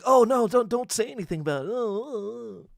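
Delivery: a hint of a scared community member begging silence; mock timid plea. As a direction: play a fretful elder shushing him. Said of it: "they'd be like".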